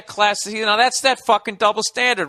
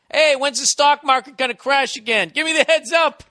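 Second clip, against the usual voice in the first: smug rich guy; 7 semitones higher than usual. Retold or imitated. Imitating a yacht owner.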